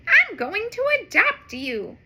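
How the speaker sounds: bright cheerful superhero promise; Supergirl voice. Acted. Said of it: "Supergirl says".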